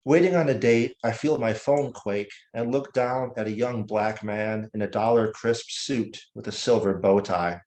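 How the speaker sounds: measured poem recital with deliberate pauses; unhurried, elegiac poem reading; poetry reading. Acted. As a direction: recite it line by line, letting each image land. Reads own poem aloud.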